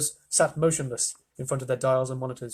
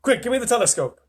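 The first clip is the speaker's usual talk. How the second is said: raised, higher voice, alarmed; yelled astronaut's demand; urgent yell; 9 semitones higher, 6 dB louder than usual. A narrator's reading. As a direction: call out urgently for help. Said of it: "yelled Shuckworth".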